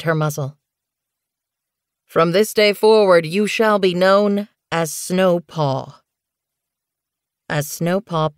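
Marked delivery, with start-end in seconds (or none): 2.0-6.0 slow, louder solemn naming; ceremonial proclamation. Acted. Pine Star giving Snowkit her apprentice name, slow and solemn. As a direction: proclaim the new name slowly.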